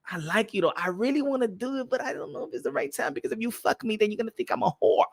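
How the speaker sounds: soft, reluctant confession; lightly voiced girl, quietly unsure; hesitant girl. Girl unsure it's the right time, soft and hesitant. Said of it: "when the girl be like".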